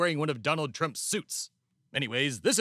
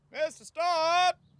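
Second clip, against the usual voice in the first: very high yell called from afar; 12 semitones higher than usual. Calling out a name across a farm: yelling a name. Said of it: "Is that guy yelling your name?".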